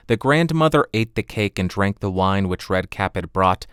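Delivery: ordinary delivery, nothing marked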